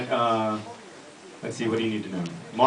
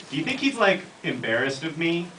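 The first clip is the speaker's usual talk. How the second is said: Angela's higher voice; 4 semitones higher than usual. Acted. Angela voiced in read scene.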